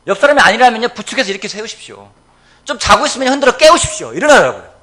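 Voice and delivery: loud, high pulpit urging; rally the congregation, building to a shout; rousing exhortation. Real, not acted. Preacher urging everyone to rise together, rousing forceful exhortation.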